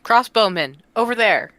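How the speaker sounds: loud warning to the group; calling out. Pretend. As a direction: call out to point out a threat. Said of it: "call out to the group".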